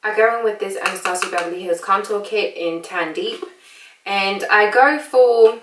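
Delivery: put-on British accent, chatty makeup tutorial; American doing a casual British accent. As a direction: talk them through it in a playful British accent.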